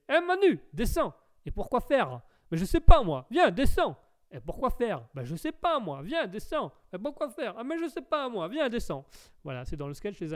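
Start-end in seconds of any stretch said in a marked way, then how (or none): 0.1-4.0 put-on high, loud comic accent; hammed-up sketch holler with swooping pitch; Pascal Légitimus. Streamer shows viewers whose accent he imitates, hollered high. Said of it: "l'accent de Pascal Légitimus que je fais". 4.3-9.1 put-on comic accent, looping back-and-forth; hammed-up exchange climbing higher; Pascal Légitimus. Streamer replays both sketch characters, rising mimicry. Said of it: "l'accent de Pascal Légitimus que je fais".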